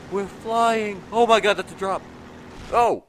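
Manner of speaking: high, loud thrilled cry; real rush as the boat flies; excited yelling; thrilled shout. Real, not acted. Boat airborne.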